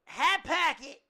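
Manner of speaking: high, loud whiny plea; mock desperate fan. Friend piling on the mock fan, loud high whine. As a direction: squeal it like a needy fan.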